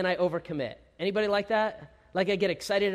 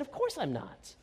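sheepish laugh; 6 dB quieter than usual. Retold or imitated. Sheepish answer to wife.

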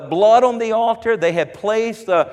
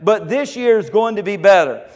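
declaring. Retold or imitated. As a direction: declare it like the worshippers. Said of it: "that's what they're declaring".

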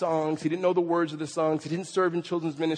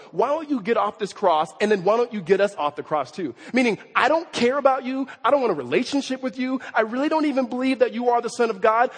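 mocking criminal; 5 semitones higher, 3 dB louder than usual. Preacher voices mocking criminal.

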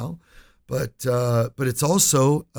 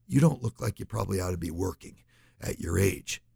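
gentle question; 4 semitones lower, 4 dB quieter than usual. Retold or imitated. Gentle, delicate question to elderly woman.

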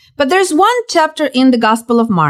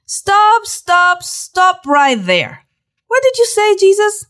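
much higher, startled cry of stop; a disciple stunned, crying out to stop Jesus; alarmed interruption; 9 semitones higher, slower than usual. Acted. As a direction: break in like a shocked disciple.

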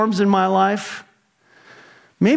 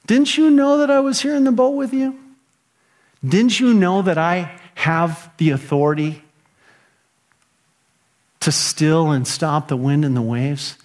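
Jesus. Retold or imitated. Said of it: "Jesus comes and says".

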